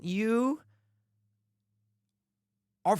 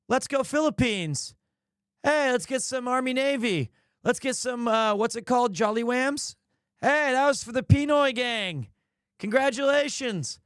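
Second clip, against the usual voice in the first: excited hype; 5 semitones higher, slower than usual. Real, not acted. Hyping the Filipino fans.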